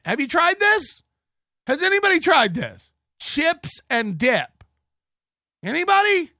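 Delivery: hammed-up mockery rising to a squeal; mock excited. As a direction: beg the crowd to try it. Mocking Chad's question.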